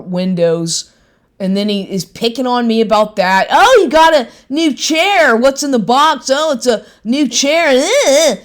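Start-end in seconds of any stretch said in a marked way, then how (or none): 3.5-8.4 high sing-song mock of the boyfriend. Woman imitating her ex's teasing questions, high sing-song voice. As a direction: parrot him in a silly high voice.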